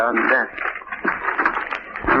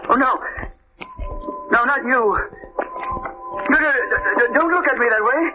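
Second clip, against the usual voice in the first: growing fear. Acted. Alone, hears intruder in dark.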